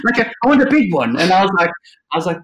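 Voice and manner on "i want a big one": high, loud mock Irish accent, half Jamaican; loud hammed-up Irish client voice. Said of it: "in Irish accent".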